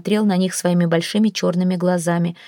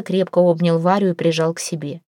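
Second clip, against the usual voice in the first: plain reading voice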